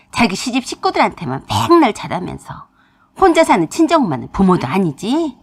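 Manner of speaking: mother turned witch-like, scolding her daughter; menacing furious mother. Acted. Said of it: "엄마가 무섭게 일그러진 모습으로". (무섭게 딸을 몰아세우는 엄마)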